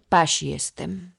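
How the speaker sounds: put-on slow, proud boy with his nose in the air; proud page boy. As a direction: state it proudly and slowly. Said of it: "zadarł nos ku powale". (z dumą, powoli)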